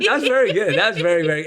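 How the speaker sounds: a light posh British accent, playfully put on; mock-posh British praise, lightly done. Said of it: "you made me sound really posh".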